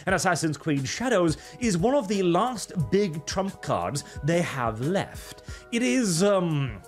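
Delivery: put-on British newsreader accent; fake British accent. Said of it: "Arch literally fakes his accent".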